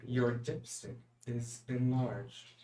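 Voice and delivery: slow, robotic car announcement; automated car voice. Retold or imitated. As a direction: read it out slowly like a machine. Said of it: "the car that has two automated voices".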